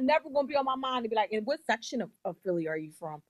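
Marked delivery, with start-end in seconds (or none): 1.3-3.2 lightly put-on prim Karen; a hint of fussy Karen, falling away lower. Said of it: "do the Karen voice at the end".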